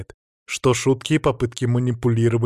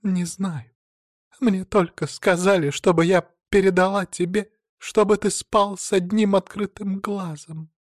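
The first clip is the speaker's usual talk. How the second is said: high, anxious woman's voice; high nervous pleading; fearful woman; 8 semitones higher than usual. A narrator's reading. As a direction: keep up the frightened act. Woman continues trembling reply.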